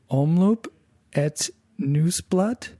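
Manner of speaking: slow, unsure "Omloop het Nieuwsblad?" with a rise; careful learner's go at "Omloop het Nieuwsblad"; tentative Dutch "Omloop het Nieuwsblad", "Nieuwsblad" as nooz-blut; trying the Dutch. Shown as a demonstration. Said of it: "I'm gonna try that again".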